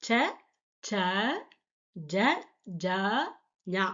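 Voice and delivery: ச, ச, ஜ, ஜா, ஞா said slowly one by one, each syllable apart; Hindi ca-row recited. Shown as a demonstration. Teacher to students, showing the Hindi ca row, clear slow recitation. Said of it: "அதாவது".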